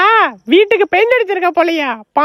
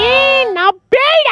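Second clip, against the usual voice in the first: ghost scare; 6 semitones higher, slower than usual. Acted.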